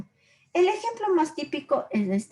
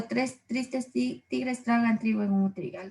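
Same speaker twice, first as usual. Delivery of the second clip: slow, quieter "tres tristes tigres"; slow tongue twister; 4 dB quieter than usual. Shown as a demonstration. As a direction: say the twister slowly and softly. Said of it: "esa es una aliteración".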